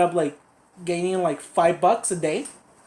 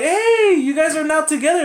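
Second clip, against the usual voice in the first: high, louder, fast teasing announcement; excited teasing; 9 semitones higher, 5 dB louder than usual. Retold or imitated. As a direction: tease the couple, quick and bright. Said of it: "and we were like".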